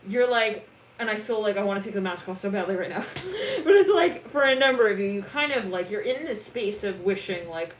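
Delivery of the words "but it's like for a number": laughing. Real, not acted. Laughing about wanting mask off.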